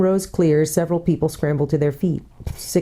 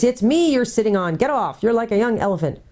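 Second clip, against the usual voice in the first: high, cross complaint; angry; 7 semitones higher than usual. A narrator's reading. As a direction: scold indignantly from underneath someone. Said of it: "came an angry voice".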